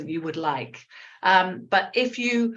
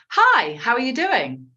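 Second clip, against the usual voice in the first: clear, higher model phrase for learners; mirroring model; 4 semitones higher, 3 dB louder than usual. Shown as a demonstration. Teacher models a greeting for students to mirror, clear demonstration. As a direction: say it cleanly for students to copy. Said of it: "let's try a little bit of mirroring".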